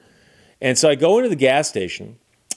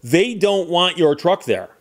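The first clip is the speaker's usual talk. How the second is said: slow and higher, mimicking a stubborn spokesman; mock insistence; 4 semitones higher, slower than usual. Driver mimics local man speaking for Copper Harbor, insistent. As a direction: imitate someone insisting on behalf of everyone. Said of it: "he kept insisting he spoke for the people".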